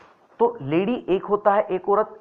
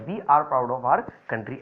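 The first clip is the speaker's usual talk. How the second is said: slow and lower, each word clear; teacher repeating the example sentence slowly; slow model sentence; 5 semitones lower, much slower than usual. Shown as a demonstration. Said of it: "हमें अपनी कंट्री पर गर्व है।".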